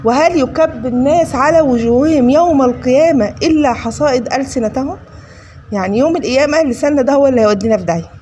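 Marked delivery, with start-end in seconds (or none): 0.0-5.0 slow recited hadith. Retold or imitated. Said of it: "قال له".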